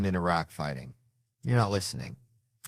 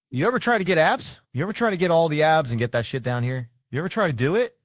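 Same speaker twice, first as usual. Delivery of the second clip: incredulous; 8 semitones higher, 4 dB louder than usual. Real, not acted. Incredulous rhetorical questions.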